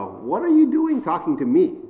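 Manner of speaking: taken-aback questioning of a stranger; confused. Acted. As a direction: ask it puzzled, lifting the pitch. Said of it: "Now, she is confused".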